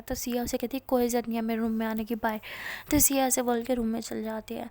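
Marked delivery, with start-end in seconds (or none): 0.9-2.4 huffy. Acted. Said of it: "गुस्सा आता है".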